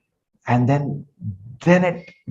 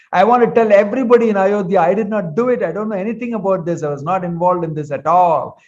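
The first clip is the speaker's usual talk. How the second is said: yelling; 3 semitones higher than usual. Acted. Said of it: "He starts yelling and screaming at his mother".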